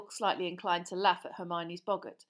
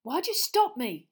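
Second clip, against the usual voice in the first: slow, loud, higher demand; angry; 5 semitones higher, 8 dB louder than usual. Acted. Boy rounding on his friend, angry. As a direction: hiss it out, annoyed. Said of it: "said Ron angrily".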